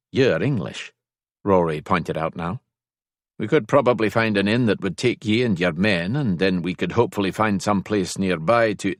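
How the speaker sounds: put-on practical Scots suggestion, lightly accented; lightly voiced Scotsman. Scottish escort suggests separate lodging, lightly voiced Scotsman. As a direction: reason it out with a hint of Scottish accent.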